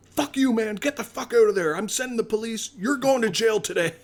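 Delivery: high, fast mock rant from the phone; imitating furious boss. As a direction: play the enraged landowner, hammed up. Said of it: "he was seeing red".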